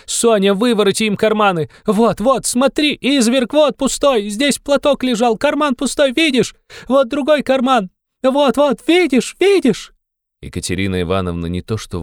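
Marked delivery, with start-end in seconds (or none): 0.0-9.9 frantic screaming. A narrator's reading. Katerina turns out Sonya's pockets, screaming.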